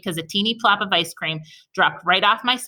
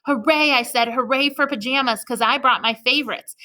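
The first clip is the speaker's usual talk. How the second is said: cheering hooray; 5 semitones higher than usual. Acted. Junie cheers about pajamas.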